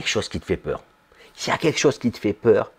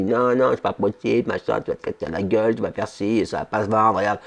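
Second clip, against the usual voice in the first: lightly voiced inner critic; a hint of a doubting little voice talking you down; little inner voice warning you'll fail, lightly done; nagging little voice; 3 semitones lower, 3 dB quieter than usual. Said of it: "la petite voix qui parle".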